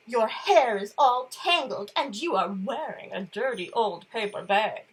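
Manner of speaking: a hint of a snooty prince; prissy prince. Prince Ronald scolding Elizabeth, lightly snooty. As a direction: sniff it down your nose. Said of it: "and said".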